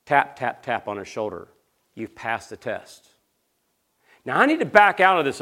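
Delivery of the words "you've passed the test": soft, slow, low murmur; voiced mock whisper. Minister telling his friend on the beach, imitated whisper. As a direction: say it gently as if close to an ear. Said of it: "and whispers in his ear".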